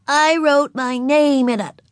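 put-on high, loud, slow little-girl voice; announcing small child. A narrator's reading. Ramona telling Mother about her writing, high proud announcement. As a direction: declare it proudly, word by word. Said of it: "she announced".

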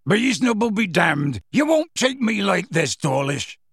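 loud, high furious roar. A narrator's reading. Hagrid defying Dawlish, loud furious roar. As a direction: bellow defiance at the wizards. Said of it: "Hagrid roared".

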